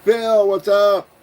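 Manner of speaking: high, slow put-on greeting; a hint of a cartoon voice. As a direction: greet the donor in a silly voice. Reading a chat donor greeting.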